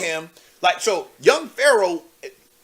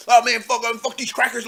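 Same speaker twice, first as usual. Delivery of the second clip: mildly mocked militant rant, slightly raised pitch; imitating militant talk; 4 semitones higher than usual. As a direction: toss off an imitation of his tough talk. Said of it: "That's how he talked".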